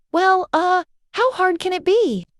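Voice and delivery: high, goofy cartoon voice; goofy grin. A narrator's reading. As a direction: say it grinning, a bit dopey. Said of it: "he said with a goofy grin".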